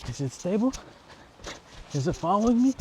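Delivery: talking while running; jogging while speaking. Real, not acted. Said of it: "I'm actually running right now".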